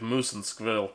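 put-on hammy Russian spy accent. Cartoon spies hunting their prey, rough Russian accent. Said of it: "That is the best Russian accent I have".

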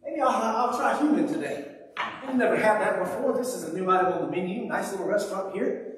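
low, musing fish voice; comic thinking-aloud, low and softened. Acted. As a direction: play a fish idly pondering dinner. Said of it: "That fish wasn't just swimming along one day and thought".

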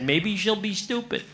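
soft, sweetly mock loving jab. Husband to wife at a birthday party, mock loving and soft. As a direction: say it gently as if it were sweet. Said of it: "and so lovingly I said".

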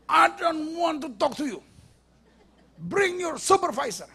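mock a haughty passenger's complaint; hammed-up anger. Official's wife demanding the supervisor, mock outrage. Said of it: "Wah, dia marah sekali".

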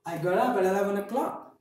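I got up at eleven o'clock with got up linked as godup; linked flap T. Shown as a demonstration. Teacher modeling a practice sentence. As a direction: link got up at with tapped t sounds. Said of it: "Once again".

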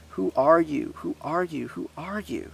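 high-pitched tender awe, hushed by the end; wondering, half-whispered. A narrator's reading. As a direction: repeat it in wonder, softening each time. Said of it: "she whispered".

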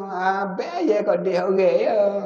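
slow, drawn-out husband's line; lightly voiced husband coaxing his wife; husband's sweet talk. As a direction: stretch it out like a wheedling husband. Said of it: "Kalau abang kata".

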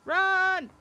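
yelling run; sudden loud yell; shouting. Real, not acted. Alarmed, fleeing monster.

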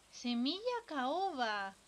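arrastrado y muy lento; estíralo, saboreando el nombre. Real, not acted. Relee el ítem alargado. (repetido muy despacio)

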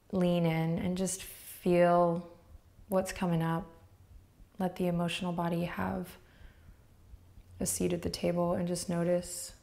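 unhurried, gentle meditation guiding with long pauses; guided meditation. Real, not acted. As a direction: ease the listener into noticing, leaving space between phrases.

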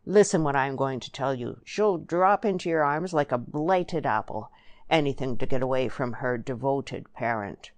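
lightly voiced country schemer, emphatic; rustic Eli, scornful. Eli urges Joe on about Lily, lightly scornful rustic voice. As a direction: press the point with a touch of dialect.

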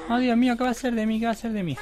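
high, hammed-up lament; mock despair. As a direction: wail as a melodramatic doomed character. Mock despair as doomed character. (lamento agudo fingido)

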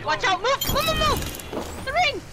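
urgent shouted commands; cover me shout. Real, not acted. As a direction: bark orders in a firefight. Shouting orders mid-fight.

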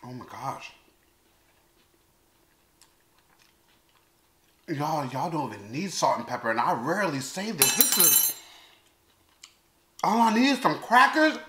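talking between bites; chewing while talking. Real, not acted. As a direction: mouth partly full. Seen 2: Eats spoonfuls from the container throughout; the food looks like chicken salad.

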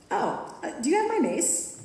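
a hesitant, breathy start, then a sharp high question; worried question. A narrator's reading. Narrator nervously asks Marnie where her mace is. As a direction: ask uneasily for your mace back.

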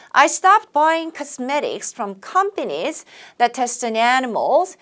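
slow, phrase by phrase; chunked model reading. Shown as a demonstration. Teacher chunking a sentence for students, slow. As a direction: read in meaning chunks for learners. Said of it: "For example부터 시작".

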